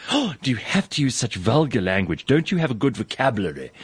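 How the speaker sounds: lightly voiced prim auntie, mock-appalled; disapproving tannie. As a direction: imitate an auntie mildly scolding someone for swearing. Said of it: "they're disapproving of me".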